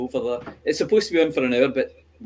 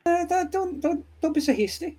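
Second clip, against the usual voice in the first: mock hasty warning; 13 semitones higher, 4 dB quieter than usual. Mock slow ancient voice.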